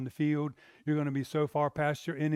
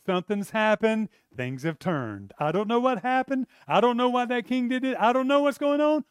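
excited disbelief; 8 semitones higher, 8 dB louder than usual. Retold or imitated. Mordecai blurting out amazement at the sudden turnaround. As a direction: voice jumps high and loud in amazement.

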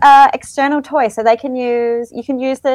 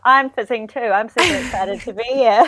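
small bedroom acoustics; in a small room. Real, not acted. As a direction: close room echo. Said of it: "I'm recording in the bedroom".

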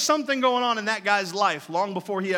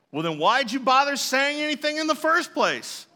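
retold snappy retort; 7 semitones higher, 4 dB louder than usual. Retorting to angry stranger.

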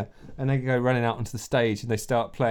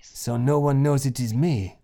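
hushed whisper; disguised reporter whispering back; 3 semitones higher than usual. Acted. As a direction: keep it secret, whisper.

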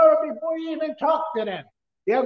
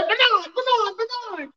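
calling out; 8 semitones higher than usual. Retold or imitated. Mother-in-law calling him urgently.

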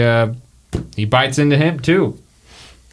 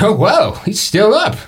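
amazed Purvis; 2 semitones higher than usual. Acted. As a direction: marvel at the tough guy, pitched up. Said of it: "Purvis goes".

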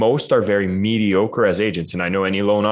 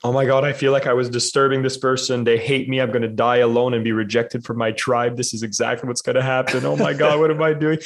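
panicked inner voice; 4 semitones higher than usual. Retold or imitated. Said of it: "I'm like".

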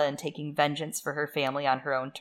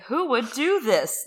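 higher, drawn-out incredulous question; playful imitation of disbelief; mock bewilderment; 6 semitones higher, slower than usual. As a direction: ask it slowly, pitch swooping up. Acts Jon's bewildered question.

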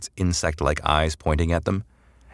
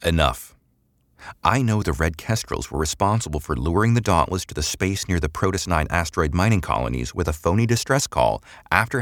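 matter-of-fact; 2 semitones higher than usual. Acted. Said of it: "She spoke matter-of-factly".

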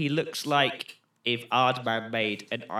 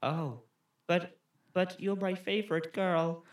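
higher, stilted bad-actor voice; flat film boyfriend; 4 semitones higher, 4 dB quieter than usual. Co-host playing boyfriend pleading with girlfriend, wooden. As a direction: parody a wooden boyfriend, hesitant. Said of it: "in the kind of voice they use".

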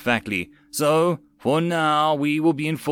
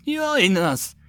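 high, hungry call; crazed cult yell; 8 semitones higher than usual. A narrator's reading. Foaming soldiers urging onlookers, crazed call. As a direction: call out like a possessed zealot. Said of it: "they yelled".

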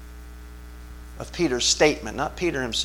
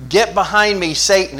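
a firm, raised rebuke, louder; sharp rebuke; 4 semitones higher, 5 dB louder than usual. Acted. Jesus turns his back and rebukes Peter, loud and stern. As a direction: cut him off with a stern order.

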